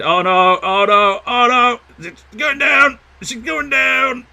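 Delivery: oh no, it's sinking; mock panic. Real, not acted.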